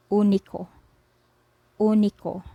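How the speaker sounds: único with a pure Spanish oo, stress on the ú; Spanish word. Shown as a demonstration. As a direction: say único as OO-nee-ko, clear and careful. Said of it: "Say, for example, we pronounce this word here as".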